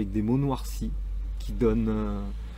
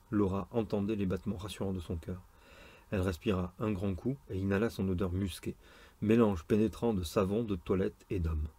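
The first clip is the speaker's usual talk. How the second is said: romance narration. A narrator's reading. Reader telling a nurse and surgeon's romance, story narration. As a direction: read the love scene aloud, understated.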